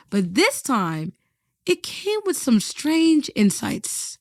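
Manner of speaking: slow, measured voiceover; documentary narration. A narrator's reading. Narrator introducing the guest's story, slow voiceover. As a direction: narrate the story gravely and slowly.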